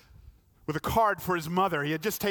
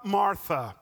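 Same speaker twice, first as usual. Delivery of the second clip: gentle repeat; 3 dB louder than usual. Retold or imitated. Jesus addressing Martha.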